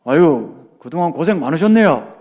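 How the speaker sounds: blunt doctor. Retold or imitated. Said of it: "무뚝뚝하게 이야기하는 겁니다".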